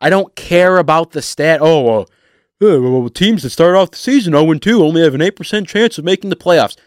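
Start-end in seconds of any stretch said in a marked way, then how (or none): 1.6-6.8 quick, smug know-it-all rattle; mock stats know-it-all. Host mocking a doom-stats pundit to Lions fans, quick smug parody. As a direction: parrot a pundit's gloomy stat with a sneer.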